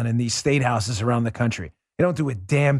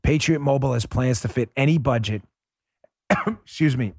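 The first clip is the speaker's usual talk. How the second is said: lightly voiced upbeat ad read, a touch more pitch than his chat; sponsor ad read; 4 semitones lower than usual. Host reads a sponsor spot to his listeners, upbeat ad voice. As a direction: sell it like a friendly radio spot.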